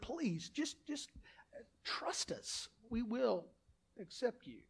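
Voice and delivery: very soft, halting, near whisper; hushed plea. Real, not acted. Preacher inviting non-members to join, hushed gentle plea. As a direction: plead gently, dropping almost to a whisper.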